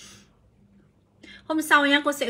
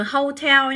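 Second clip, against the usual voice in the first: hotel stressed on TEL, slow; second-syllable stress; 3 semitones higher than usual. Shown as a demonstration. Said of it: "các bạn lại nhấn vào hai".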